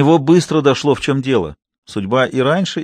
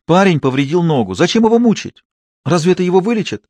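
higher, pleading reproach; reproachful daughter; 7 semitones higher than usual. A narrator's reading. Climène reproaches her father for torturing the boy. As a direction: scold father for his cruelty. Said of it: "укорила она отца".

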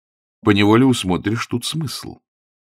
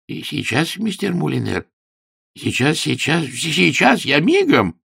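high-pitched, hurried servant voice; flustered landlady; 7 semitones higher than usual. Acted. Landlady hurries to obey her tenant, high and flustered. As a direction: scramble to please him.

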